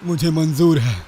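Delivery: a lightly voiced father, resolute; firm tone. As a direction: accept the bargain with firm resolve. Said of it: "दृढ़ लहजे में बोला". (दृढ़ लहजे में हल्का सा पिता का स्वर)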